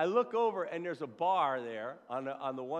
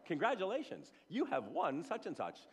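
mock robocall voice; 4 semitones higher than usual. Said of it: "always a recorded line".

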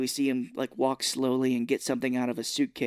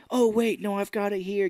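higher put-on "hold on"; mock sudden interruption; 7 semitones higher than usual. Retelling him stalling the cops, mock interruption.

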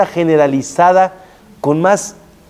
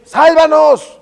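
pleading plea; 9 semitones higher, 4 dB louder, much slower than usual. Acted. Mordejai pleading with Esther.

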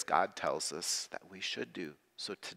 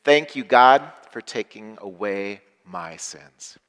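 joyful thanks; 9 dB louder than usual. Shown as a demonstration. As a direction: lead a celebrating congregation. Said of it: "Say that with me".

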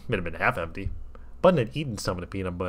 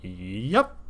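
mournful sigh. A narrator's reading. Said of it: "with a mournful sigh".

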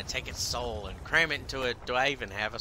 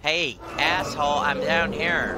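louder, slower enraged taunt; berserk rage; 4 semitones higher, 4 dB louder, slower than usual. Real, not acted. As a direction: bellow up at the sky. Dragon won't land.

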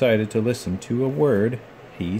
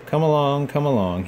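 fussing; 5 semitones higher than usual. Acted. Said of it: "he fussed".

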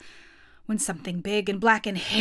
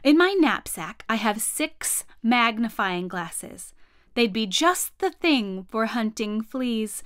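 helpful offer. Acted. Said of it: "said my father".

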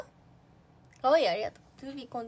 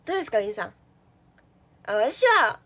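stiff nervous talk; 9 dB louder than usual. Retold or imitated. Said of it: "そういう喋り方になっちゃう".

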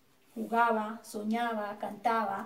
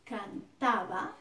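cantaba drawn out slowly, each syllable clear, falling at the end; slow example word; 3 semitones lower, 3 dB quieter, much slower than usual. Shown as a demonstration. Teacher modelling the verb slowly for students copying it down. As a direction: spell cantaba out slowly for the notebook. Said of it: "verbos terminados en aba".

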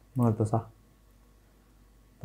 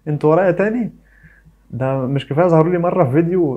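mock exasperation; 4 semitones higher, 4 dB louder than usual. Real, not acted. Mock complaint to the quiz flags.

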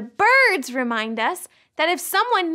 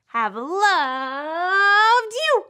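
slow recitation; much slower than usual. Acted. Reciting verse slowly.

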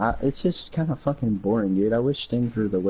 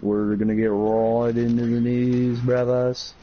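lightly voiced slow announcer; a hint of a hyped news host; news host impression; slower than usual. Mocking YouTube news hosts, slow announcer voice. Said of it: "one of those weird guys who just says".

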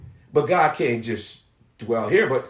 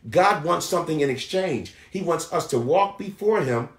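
emphatic preacher's delivery with stretched key words; preaching; 5 semitones higher than usual. Acted. Preacher assuring the people God shows mercy, emphatic preaching. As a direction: preach it firmly, punching key phrases.

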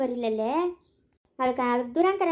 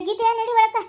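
sharp order; 5 semitones higher, 4 dB louder than usual. Acted. Ordering daughter inside, loud.

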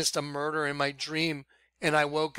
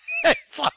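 nervous laugh; 4 dB louder than usual. Real, not acted. Reacting to the murder story.

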